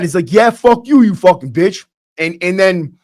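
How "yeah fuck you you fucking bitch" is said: mildly heated, higher at the start; imitated angry retort, easing off at the end; retold angry comeback. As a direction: act out a mad kid snapping back, not full force. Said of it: "understandably gets mad".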